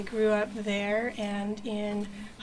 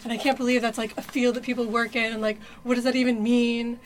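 angry college self; 4 dB louder than usual. Retold or imitated. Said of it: "I was in my angry at everything because the world is messed up phase".

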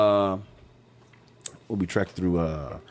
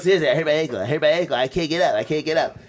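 mock whining, slurred consonants; hysterical injured friend; 2 semitones higher, much faster than usual. Injured friend begging his buddies, mock hysterics. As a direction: imitate a hurt friend's pleading, words mushed. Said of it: "everything he does is hysterical".

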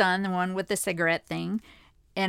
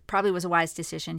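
normal talking voice

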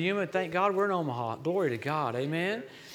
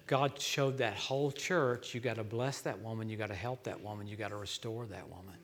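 fading quiet; 7 semitones lower, 8 dB quieter than usual. Real, not acted. Preacher urging church to restore woman.

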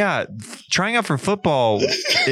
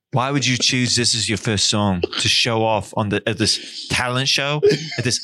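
a repo man styled after a band. Acted. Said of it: "Oasis Repo Man".

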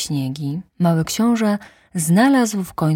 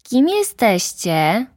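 little prince; 6 semitones higher, 4 dB louder, slower than usual. Acted. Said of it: "spytał mały książę".

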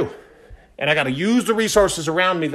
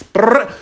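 fast-talk noise; 5 semitones higher, 5 dB louder than usual. Shown as a demonstration. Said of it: "I have a fast-talking voice".

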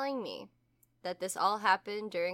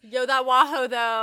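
party bro voice; 2 semitones higher, 8 dB louder than usual. Pretend. Joins the party bro bit.

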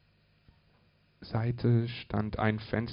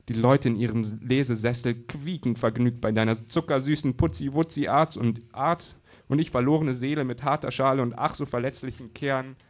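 slightly sugary mockery, pitch lifted; mildly gushing, ironic recital; lightly mocking; 3 semitones higher, 4 dB louder than usual. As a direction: make light fun of the clichés. Mocks sugary romance story clichés.

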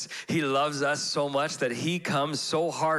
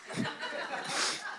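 embarrassed laugh; 8 dB quieter than usual. Real, not acted. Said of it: "excuse me, I'm choking up".

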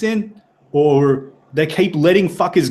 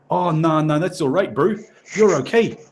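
put-on Kiwi accent; 2 semitones higher than usual. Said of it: "I think I'm losing the accent now".

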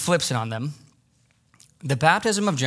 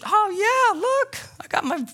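mock fake Christian.

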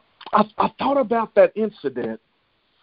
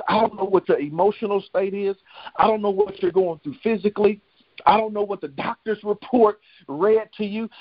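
insistent, rhythmic run of parallel phrases; preaching litany. Real, not acted. Preacher speaking God's message to struggling listeners, insistent litany. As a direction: drive each repeated phrase home like a preacher.

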